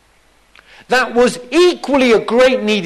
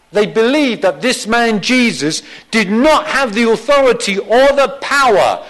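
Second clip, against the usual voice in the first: higher, insistent pulpit delivery; emphatic preaching; 5 semitones higher, 5 dB louder than usual. Real, not acted. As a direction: build the point with rising force. Preacher builds in force.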